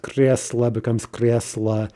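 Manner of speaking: Кресло and кресло said exactly alike, slowly; identical forms. Shown as a demonstration. Teacher showing plural that sounds identical. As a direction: keep Кресло and кресло the same, no shift. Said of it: "absolutely no difference in the pronunciation".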